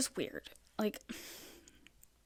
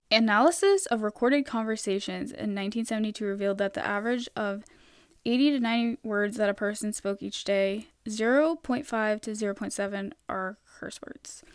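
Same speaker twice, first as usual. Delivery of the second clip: reading a research finding word for word; reading aloud. Real, not acted. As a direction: read out a looked-up fact. Reads a search result aloud.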